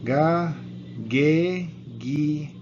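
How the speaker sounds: "Ga, ge, gi" called out loud with a hard g; loud drilled syllables. Shown as a demonstration. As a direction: drill them like a class chant. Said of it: "it is silent".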